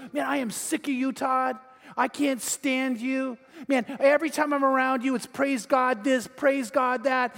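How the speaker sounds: fed-up rant, acted without real shouting; mock yelling. Angry man fed up with the surfer's praise, mock yelling. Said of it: "like, screaming and yelling".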